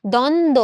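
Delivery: দ্বন্দ্ব said as "dondo", no b sound; demonstrated pronunciation. Shown as a demonstration. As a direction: leave the ব silent in দ্বন্দ্ব. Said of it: "এটা উচ্চারণ হচ্ছে".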